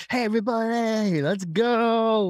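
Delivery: high-pitched hype greeting, hammed-up; pumped-up crowd opener at a eulogy; mismatched upbeat tone. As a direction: play it absurdly peppy for a funeral. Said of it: "matching the tone. Yeah, it, it's eulogy".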